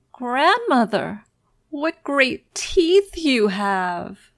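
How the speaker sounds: put-on slow, high, frightened child; frightened wonder. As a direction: ask with growing fear. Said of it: "looked with wonder".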